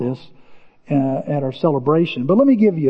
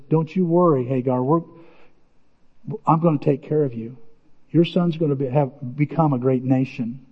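lower, softer reassuring voice; gentle reassurance; 4 semitones lower, 4 dB quieter than usual. Retold or imitated. God to weeping Hagar in the desert, gently reassuring. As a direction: soothe quietly, as a retold promise.

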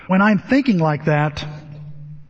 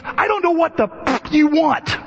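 high, strained imitation of snapping; exasperated outburst; 10 semitones higher than usual. Dave finally pushed too far by therapist, imitated exasperated outburst. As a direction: burst out at the end of your patience, pitched high. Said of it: "finally he pushes him".

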